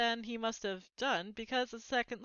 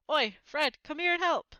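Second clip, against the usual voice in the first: louder, higher shout to brother; calling out; 7 semitones higher, 8 dB louder than usual. A narrator's reading. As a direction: call across the train. Twin calling his brother.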